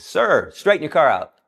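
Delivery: lightly acted police command; cop's order. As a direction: imitate an officer calling out an order. Cop ordering a driver.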